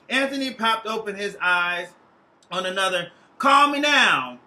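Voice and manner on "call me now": put-on slow, louder Jamaican accent, higher. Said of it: "carried over by a Jamaican accent".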